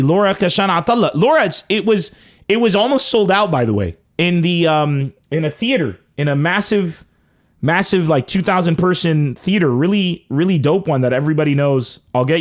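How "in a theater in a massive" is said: normal talking voice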